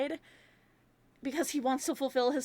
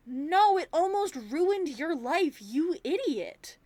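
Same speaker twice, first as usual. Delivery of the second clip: exasperated scolding; 3 semitones higher, slower than usual. Real, not acted. Viewer scolding Mike for bad advice, exasperated. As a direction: stretch each word at a hopeless fool.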